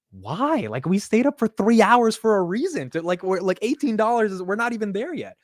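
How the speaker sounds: mock-exasperated, high-pitched pleading; exasperated protest. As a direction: protest in a high voice, retelling an argument. Retells protesting friend's early sale.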